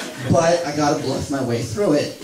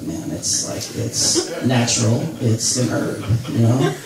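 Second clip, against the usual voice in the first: mock stoner; 5 semitones lower, 4 dB quieter than usual. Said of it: "you're like".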